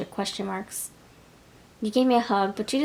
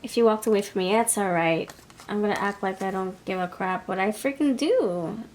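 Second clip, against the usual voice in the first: lightly voiced fake-casual shrug-off; mock tough nonchalance. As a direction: pretend it doesn't hurt, brushing it off. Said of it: "They're trying to act all tough".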